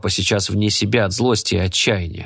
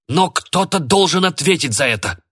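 curt dry retort; 8 semitones higher than usual. A narrator's reading. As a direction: cut them off coldly. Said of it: "отрезал папа сухим голосом". (папа сухо отрезает, требуя виновного)

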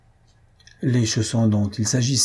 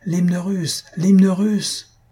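full-lunged crowd cry; 7 semitones higher, much slower than usual. A narrator's reading. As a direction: join the crowd's clamour, building on the repeat. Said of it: "de tous ses poumons au cri". (cri aigu qui enfle)

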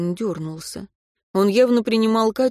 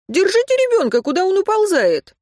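urgent; 12 semitones higher, 4 dB louder than usual. Acted. Anton urging to catch child.

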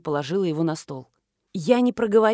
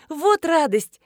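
higher and louder with joy; gleeful; 9 semitones higher, 4 dB louder, slower than usual. A narrator's reading. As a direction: celebrate the news. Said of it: "обрадовалась Марина". (с ликованием)

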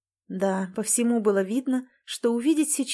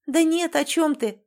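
much higher, louder surprised exclamation; exclaiming; 7 semitones higher, 4 dB louder than usual. Acted. Natasha waves off her sister's worry, exclaiming higher and louder. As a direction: brush it off with a quick cry. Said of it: "воскликнула Наташа".

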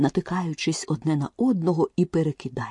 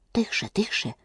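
rabbit whispers; 3 semitones higher, 6 dB quieter than usual. A narrator's reading. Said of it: "зашепотів кролик".

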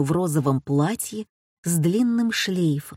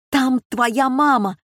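yelling; 6 semitones higher, 4 dB louder than usual. A narrator's reading. Josephine yells to her son about his mother, excited yelling. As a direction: shout the news across the room. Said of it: "завопила Жозефина".

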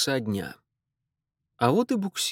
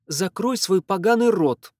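louder, higher sharp command; sister's order; 8 semitones higher, 5 dB louder than usual. A narrator's reading. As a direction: snap at the brother. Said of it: "велела ему сестра". (сестра резко, громче)

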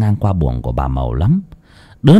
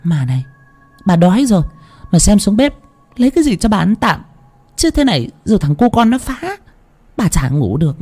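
put-on old grandmother's high, sharp scolding; harsh irritable grumble; 10 semitones higher than usual. A narrator's reading. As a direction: snap at the boy like an annoyed old woman. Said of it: "khó chịu mà gằn giọng". (bà cụ gằn giọng khó chịu, cao và gắt)

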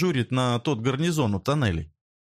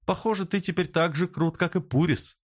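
teasing, mildly raised voice; sarcastic; 7 semitones higher than usual. Acted. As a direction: needle him with mock admiration. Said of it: "с сарказмом говорит Зоя".

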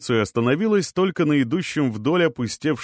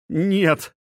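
horrified refusal; 8 semitones higher than usual. A narrator's reading. Mary refuses again, horrified.

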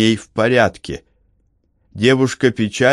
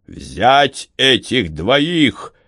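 mock shout; 4 semitones higher, much slower than usual. A narrator's reading. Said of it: "закричал командир".

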